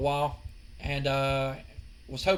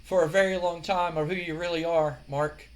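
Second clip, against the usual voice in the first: Goldust voice. Retold or imitated. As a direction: draw it out like a creepy seducer. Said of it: "And he goes".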